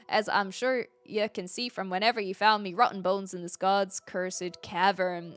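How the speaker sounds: put-on half-hearted pirate accent, reading a journal. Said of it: "I don't know how to do a pirate accent".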